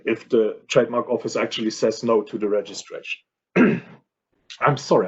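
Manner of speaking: losing voice, rough and strained; hoarse voice. Real, not acted. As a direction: speak through a sore, hoarse throat. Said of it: "I'm losing my voice".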